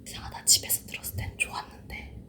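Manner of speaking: soft unvoiced ASMR whisper. Real, not acted. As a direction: whisper close to the mic. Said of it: "에이에스엠알로 하나하나 소리랑 자막으로만".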